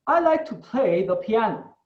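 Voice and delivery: slow, careful try at a British accent; attempted British accent. Shown as a demonstration. Teacher showing the class how the British say it, attempted British accent. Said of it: "Lo voy a tratar de decir con acento británico".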